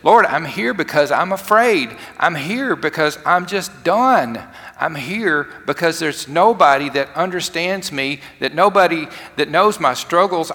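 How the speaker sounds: Elijah pleading. Acted. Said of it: "He might as well said".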